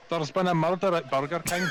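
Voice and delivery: put-on laughing through a Scottish accent; rolled r Scottish brogue. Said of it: "Someone's asking you to say ... in a Scottish accent".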